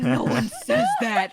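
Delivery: annoyed. Retold or imitated. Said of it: "I start getting so pissed".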